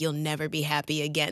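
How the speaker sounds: plain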